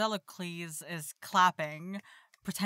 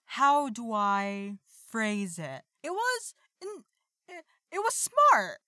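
high, halting put-on voice; high-pitched stalling; 6 semitones higher than usual. Disguised initiate dodging a question about the proposal, high and halting. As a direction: stall for words in a much higher voice.

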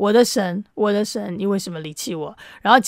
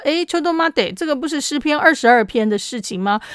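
surprised realization; 6 semitones higher than usual. Retold or imitated. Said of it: "他们就知道说".

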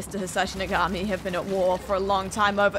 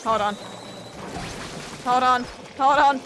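growing panic; 2 semitones higher than usual. Real, not acted. Panicking mid-round.

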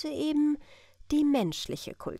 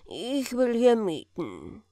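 businesslike; slower than usual. A narrator's reading. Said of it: "sagte er geschäftsmäßig".

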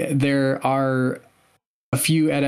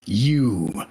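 slow, ominous raspy voice; raspy Sith master; 2 semitones lower, slower than usual. Retold or imitated. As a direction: slowly rasp it out like an ancient dark lord. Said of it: "he was like".

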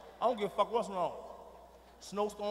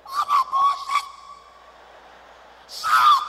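extremely high, loud squealed warning; voice gone up; 12 dB louder, slower than usual. Retold or imitated. Father showing he is serious, high squealed shout. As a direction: squeal it in falsetto to prove you mean it. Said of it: "When your voice go up, you serious".

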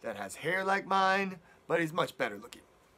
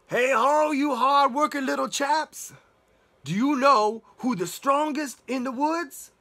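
a loud, higher, hearty wolf calling out; booming wolf; 7 semitones higher, 8 dB louder than usual. Acted. Wolf calling out to the dwarfs, loud and pompous. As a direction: hail them from afar, full of himself.

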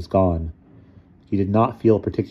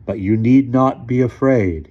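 slow, raised, measured comfort; gentle reassurance; 5 semitones higher, 6 dB louder, slower than usual. A narrator's reading. Figure calms his trembling younger self, gently. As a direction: reassure him gently but grandly. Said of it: "He said as gently as possible".

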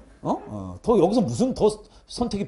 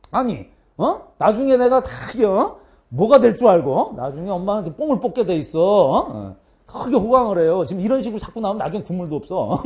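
mock-defiant son talking back; brazen arguing. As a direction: argue back with cocky confidence, retold. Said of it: "되게 당당하게 엄마한테 따졌어". (엄마한테 당당하게 따지듯)

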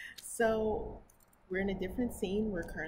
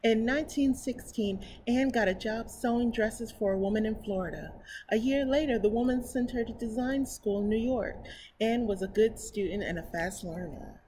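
slightly higher, clearer storybook reading; story narration; 3 semitones higher, 6 dB louder than usual. Acted. Reading a picture book to her viewers, storybook narration. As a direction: read it aloud to children.

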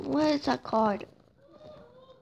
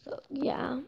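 whispering; 5 dB quieter than usual. Real, not acted. Unvoiced whisper.

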